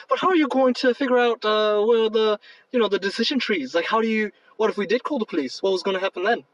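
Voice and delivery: lightly put-on British questioning; attempted British accent. Host voicing Damon asking about decision trees, mild British accent attempt. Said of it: "that's not a good accent".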